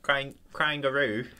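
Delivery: experimental British-Australian "kangaroo"; British-tinged Australian accent. Pretend. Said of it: "No, add some British to it".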